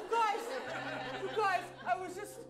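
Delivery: breathless panic. Acted. Breathless scared character story.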